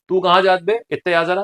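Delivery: short rustic Bundeli demo; Bundeli dialect. Shown as a demonstration. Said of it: "ये हो गया आपका बुंदेली". (बुंदेली लहजे में)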